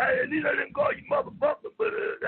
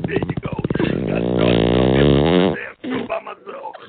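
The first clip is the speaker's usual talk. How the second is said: put-on voice; 8 dB louder than usual. Complaining nobody talks.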